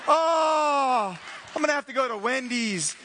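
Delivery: hammed-up sigh of a let-down customer; mock dismay at a closed Chick-fil-A; mock disappointment.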